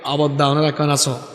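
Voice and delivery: imitated Chittagong dialect greeting. Shown as a demonstration. Preacher shows how Chittagong people talk, Chittagong dialect. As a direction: ask it as Chittagong locals would. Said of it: "আবার চিটাগাংয়ে গেলে কি কয়?".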